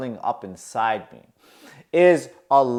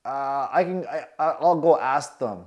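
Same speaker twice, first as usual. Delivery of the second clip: stuttering. Retold or imitated. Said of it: "I'm stuttering".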